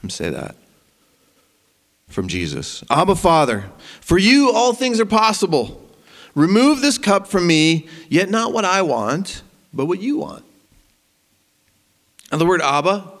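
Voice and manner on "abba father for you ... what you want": pleading prayer. Retold or imitated. Quotes Jesus's prayer with force.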